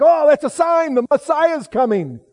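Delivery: high, loud mocking gasp of excitement. Preacher mocking Jews excited over the Wailing Wall snake, high and loud. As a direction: ham up their breathless thrill over a sign. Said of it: "And they're like".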